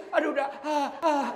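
high, half-laughing plea to let go; pained coaxing. Acted. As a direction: coax the baby off while wincing, a little hammed-up. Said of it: "dibujuknya itu". (membujuk sambil meringis, agak dilebih-lebihkan)

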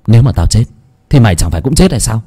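heated argument with his own shadow; defiant retort. Acted. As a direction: throw the threat back at him.

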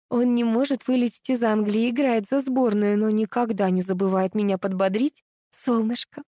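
high, hurried chatter; rattling off. Acted. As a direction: rattle it off to save face. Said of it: "выхватила открытку и зачастила".

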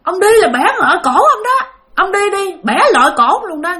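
mock demon menace; demon threat. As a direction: threaten him like a spirit. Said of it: "con quỷ nói".

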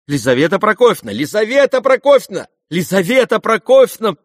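alarmed guests calling her back; crowd calling out. A narrator's reading. Guests call out to stop her, alarmed. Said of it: "послышалось разом со всех сторон".

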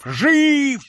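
shout. Acted. Count shouts at grooms.

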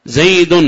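"زيد" as zaydun, ringing out the final n; tanwin sounded. Shown as a demonstration. Teacher proving a nun is spoken, "زيد" pronounced zaydun. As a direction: say "زيد" with an audible un ending. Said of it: "نطقنا بنون".

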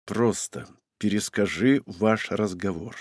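soft, slow, held-back anger; quiet restrained. A narrator's reading. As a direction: force it out quietly through gritted teeth. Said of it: "тихо спросил".

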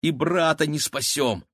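high-pitched worried wail; nervous. A narrator's reading. Girl fears failing to rescue her brother, nervous. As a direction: fret it out in a high girl's voice. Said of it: "нервничала Кира".

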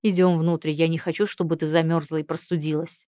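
gentle, caring tone; soft voice. Acted. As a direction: say it gently and kindly. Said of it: "мягким голосом произнёс Элияр". (мягким голосом)

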